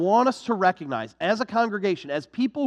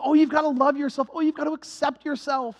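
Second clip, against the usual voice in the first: mocking self-love slogans; 5 semitones higher than usual. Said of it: "this idea of self-love".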